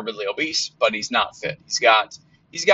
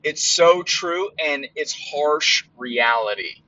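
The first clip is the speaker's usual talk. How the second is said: slow awed reaction; 4 semitones higher, slower than usual. Retold or imitated. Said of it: "I was like".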